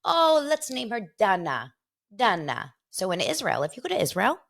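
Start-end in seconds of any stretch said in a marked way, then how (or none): 0.0-2.7 put-on parents naming baby. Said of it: "they said".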